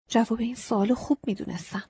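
ordinary delivery

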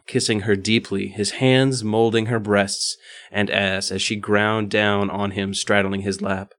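even, measured read-aloud voice; story narration. A narrator's reading. Reading an erotic story to co-hosts, narrating. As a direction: narrate the prose in careful phrases.

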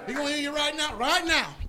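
put-on old-time believers answering in joy; fervent believers. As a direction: shout your faith like you mean it. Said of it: "That's how they talk".

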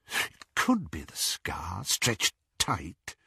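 hushed, low murmur; whisper. A narrator's reading. Lucius examining the scar, whispering. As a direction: keep it under your breath. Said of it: "he whispered".

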